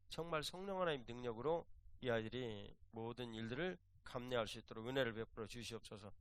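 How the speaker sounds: solemn pleading prayer cadence, opening cry of 주여; retold prayer. Pastor praying for the children, a retold solemn prayer. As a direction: pray over the children, earnest and measured. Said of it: "제가 기도를 드렸어요".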